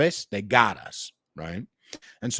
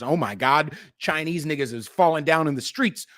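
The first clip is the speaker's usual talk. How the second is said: mock panic; 4 semitones higher, 4 dB louder than usual. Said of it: "We had a lot of motherfuckers".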